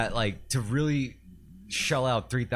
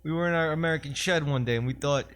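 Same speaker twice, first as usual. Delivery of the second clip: Uncle Tito voice; 7 semitones higher than usual. Pretend. Uncle Tito boasting how he invented his vodka, high and hammed-up. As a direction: spin the brand legend as a proud uncle.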